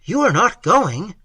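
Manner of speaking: high, loud, frantic cry; wild interruption. A narrator's reading. A frantic lover interrupting as she leaves, loud and high. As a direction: cut her off in alarm. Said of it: "wildly interrupting her".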